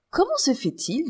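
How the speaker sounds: surprised. A narrator's reading. Minister startled by beggar woman, surprised. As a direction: ask it as if caught off guard. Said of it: "dit Saint-Fond surpris".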